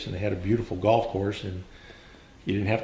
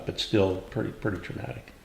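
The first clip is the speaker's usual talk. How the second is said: trailing off into a near whisper; quiet, heavy with memory; 5 dB quieter than usual. Real, not acted. Recalls a comrade killed in combat.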